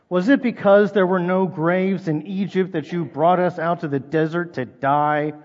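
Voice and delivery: a touch of bitter sarcasm in the reading; sarcastic. Retold or imitated. Israelites sniping at Moses in the desert, lightly sarcastic. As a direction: read it as a mild jab at Moses. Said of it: "You can hear the sarcasm".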